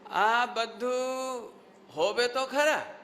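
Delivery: drawn-out, emphatic concession; Swami ji. Retold or imitated. Teacher showing students how the swami conceded a point, drawn-out. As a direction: imitate a revered preacher, stretching the words. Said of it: "Swami ji कैसे बोलते थे".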